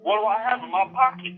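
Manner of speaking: retelling the clerk's accusing question, lightly voiced; accusing store clerk. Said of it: "Then he told me".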